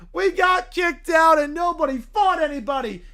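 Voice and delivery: loud complaint. Acted. Kids complain loudly outside.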